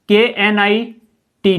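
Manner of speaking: letters spelled one by one, के N I T; spelling out. Shown as a demonstration. (शब्द के अक्षर एक-एक करके बोलना)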